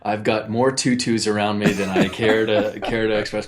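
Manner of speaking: chuckling through the words; laughing. Real, not acted. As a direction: laugh while admitting it. Laughing about tutus around him.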